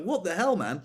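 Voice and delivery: high-pitched retold protest; indignant disbelief. Cashier to a raging customer, indignant disbelief.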